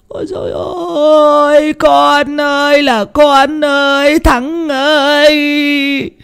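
high, slow, drawn-out wailing lament; keen over the lost son, crying. A narrator's reading. Grieving mother wailing for her dead son, high slow keening. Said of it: "mà khóc".

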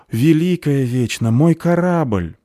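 loud, high, drawn-out exclamation; alarmed cry. A narrator's reading. Girl suddenly remembers her ship, alarmed.

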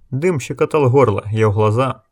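usual speaking voice

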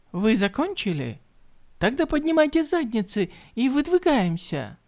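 loud barked order; commanding shout. Acted. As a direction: order the warriors to move out. Woman barks order at warriors.

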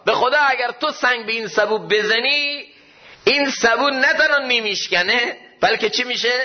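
hopeful exhortation. Retold or imitated. Preacher voices Rumi urging listeners to hope, high and pleading. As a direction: lift the voice high to urge hope.

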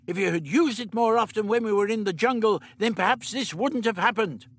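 lightly voiced elderly scientist; the Doctor. A narrator's reading. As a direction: play the Doctor, matter-of-fact.

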